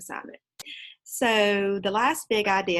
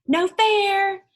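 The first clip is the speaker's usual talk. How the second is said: much higher, louder protest; yelled; 13 semitones higher, 9 dB louder than usual. Acted. Janet bumped off the curb, yelling in protest. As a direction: yell it like a kid cheated. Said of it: "yelled Janet".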